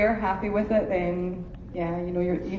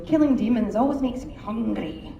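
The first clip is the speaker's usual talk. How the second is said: put-on Scottish accent. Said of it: "go really Scottish on it".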